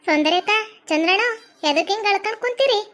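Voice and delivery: high-pitched, put-on voice of a fretting friend; chiding, concerned friend. Lakshmi telling the weeping couple to stop crying, high and chiding.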